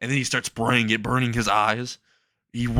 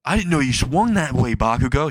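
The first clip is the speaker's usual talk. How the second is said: mock scream; 3 semitones higher, 4 dB louder than usual. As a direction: call it out in mock shock. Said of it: "he screams out loud".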